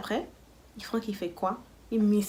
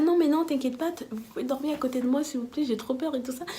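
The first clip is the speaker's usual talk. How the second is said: slightly high, small pleading voice; cute scared pleading; 4 semitones higher than usual. Retold or imitated. Asking friends to sleep beside her, cute pleading. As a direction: ask sweetly, playing up the fear. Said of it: "J'étais trop mignonne".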